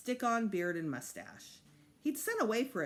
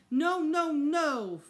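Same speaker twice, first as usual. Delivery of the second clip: much higher, loud panicked no; shout; 9 semitones higher, 9 dB louder, much slower than usual. A narrator's reading. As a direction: yell no in fear of a spanking. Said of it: "Fudge shouted".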